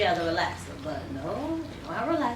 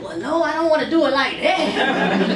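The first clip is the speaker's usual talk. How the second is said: higher, louder, laughing through a mock objection; laughing refusal; 5 semitones higher, 7 dB louder than usual. Stylist recalling her refusal to the old-school lady, laughing. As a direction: laugh as you push back on the idea. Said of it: "And I'm like".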